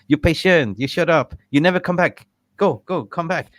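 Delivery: loud, high mock shout of a furious dentist; mimicking the dentist throwing him out, shouted high; angry dentist. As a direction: bark it like an offended dentist. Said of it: "He said".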